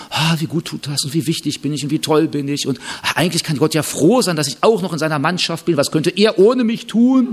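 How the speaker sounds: smug inner voice rising to a proud boast; mock self-important musing. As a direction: play a vain Christian admiring himself. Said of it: "Das schmeichelt unsere Eitelkeit".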